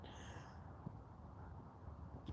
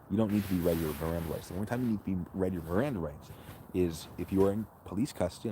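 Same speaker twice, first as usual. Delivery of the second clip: rocking in a hammock. Real, not acted. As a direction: voice jostled by swaying. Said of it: "I'm sorry for the shaking. It's a hammock".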